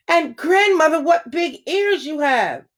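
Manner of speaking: put-on girl marveling at grandmother's ears; wide-eyed wonder. A narrator's reading.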